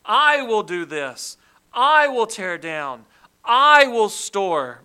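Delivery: each I punched loud and slow; stress on I. Shown as a demonstration. Preacher stressing I in the rich man's words. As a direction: hit every I hard. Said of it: "Notice the self-interest ... the word I".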